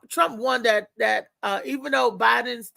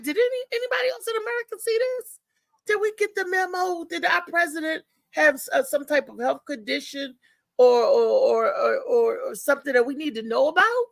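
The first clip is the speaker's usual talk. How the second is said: incredulous outburst; 4 semitones higher than usual. Retold or imitated. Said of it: "I was like".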